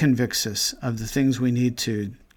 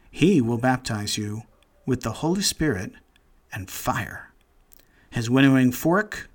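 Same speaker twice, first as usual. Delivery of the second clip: solemn, measured Bible reading; scripture reading. Acted. Preacher finishes reading Matthew to the congregation, solemn and measured. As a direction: let the old words ring out evenly. Reads the rest of the passage.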